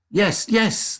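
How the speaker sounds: high eager promise; eager children. A narrator's reading. Children answer Wonka, high and eager. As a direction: rush to agree. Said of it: "the children cried".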